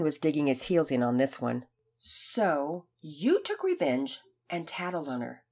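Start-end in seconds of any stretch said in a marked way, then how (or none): 2.0-5.4 calm. Acted. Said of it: "Mister Cochran calmly asked".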